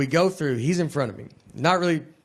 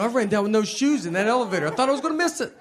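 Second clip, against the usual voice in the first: frantic shoeless guest; 5 semitones higher, faster than usual. Retold or imitated. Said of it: "They go".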